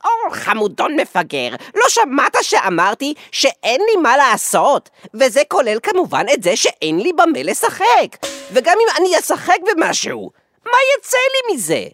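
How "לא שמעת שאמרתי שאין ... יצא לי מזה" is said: high rant climbing to a shrieked finish; exasperated scolding. Acted. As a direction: scold him, pitch rising ever higher. Scolds friend, building to outburst. (נזיפה רוגזת שמטפסת לצווחה)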